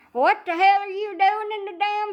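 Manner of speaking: high, exasperated friend voice; high incredulous helper; mock helper. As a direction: voice the bewildered helper finding him on the floor. Helper voiced finding him stuck.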